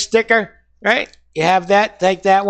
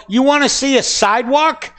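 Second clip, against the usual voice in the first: mock retort; 5 semitones higher than usual. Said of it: "And I go".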